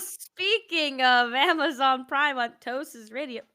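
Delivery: slow, showy radio host read; radio announcer voice. Pretend. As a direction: play it like a hammy DJ. Mocks the ad segue.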